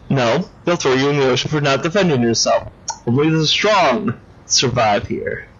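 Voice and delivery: usual speaking voice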